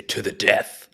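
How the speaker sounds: grand, theatrical oath; really dramatic. Acted. Player echoes the orc's oath in a dramatic way. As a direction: slam it down and swear it like an epic hero. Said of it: "like that, in a really dramatic way".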